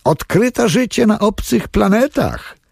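high, excited exclamation; enthusiastic shout. Acted. Man in the crowd cheers a witty joke, excited high shout. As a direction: announce it like wonderful news. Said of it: "zbudził Toma entuzjastyczny okrzyk".

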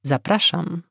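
brisk sing-song welcome; chirpy teacher. Acted. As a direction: chirp it out cheerfully. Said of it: "zaświergotała raźno".

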